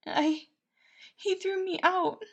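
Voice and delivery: high halting hurt voice; Patton, tearful baker. Acted. Baker telling Logan he was thrown out, high and tearful. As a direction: struggle to get the words out.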